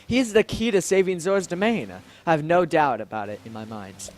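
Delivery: earnest, formal fantasy-royal delivery; noble Zora royal, reproving. Acted. Royal defending the invited guest, noble and firm. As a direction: lightly declaim a firm royal rebuke.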